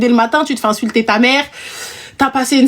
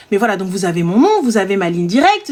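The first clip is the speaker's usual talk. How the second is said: lower, composed professional phone voice; careful, audible customer-service French; clear, proper French; 5 semitones lower than usual. Retold or imitated. Agent reassures impatient client in careful, clear French. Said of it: "de parler dans un français audible".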